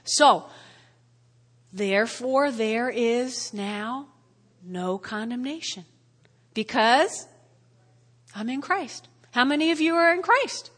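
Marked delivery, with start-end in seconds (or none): 1.7-9.1 quiet assurance. Shown as a demonstration. Savoring verse as personal truth.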